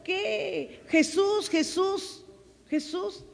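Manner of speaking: mocking prissy voice, pitched high, whining the name; preacher mocks sanctimonious voices, high and whiny; whiny little voice. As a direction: imitate the churchy little voices whining Jesús. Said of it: "esas vocecitas que por ahí tú escuchas que te dicen".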